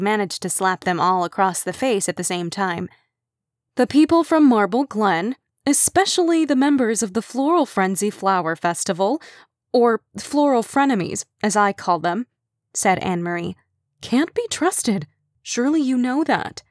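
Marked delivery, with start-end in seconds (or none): 3.8-12.3 higher, snide rivalry voice; snarky woman. Acted. Anne Marie disdains rivals. 14.0-16.6 dramatic warning. Acted. Anne Marie's dramatic warning.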